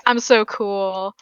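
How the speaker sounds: drawn-out, slow "so cool" coyness; playing it cool. Rogue player showing off her old rogue days, playing it cool. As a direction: lay on the casual coolness. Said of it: "playing coy, like".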